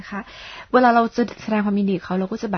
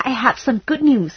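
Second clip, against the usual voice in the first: louder, slow and pleased; showing gladness; 4 semitones higher, 6 dB louder, much slower than usual. Shown as a demonstration. Teacher announcing good news to a friend, slowly and gladly. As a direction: share it like you can't wait. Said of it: "แสดงความดีใจหน่อย".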